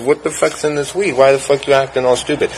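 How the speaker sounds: high, incredulous retold questions; baffled protest. Smoker to friend acting strangely, high baffled protest.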